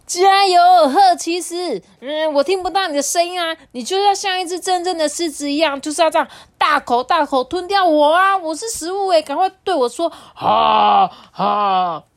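high, loud eager little owl; excited child cheering. Acted. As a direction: cheer the toy on, bursting. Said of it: "他就对着他的玩偶讲说".

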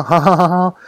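spaced ha ha ha laughter; incredulous laughing; real laugh. Real, not acted. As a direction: laugh in disbelief. Laughing at absurd excuse.

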